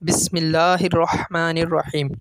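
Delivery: slow, measured Arabic recitation; unhurried tajweed-style reading; Quranic opening recitation. Shown as a demonstration. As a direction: recite the Bismillah with lengthened vowels. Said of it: "سب سے پہلے ہم پڑھتے ہیں".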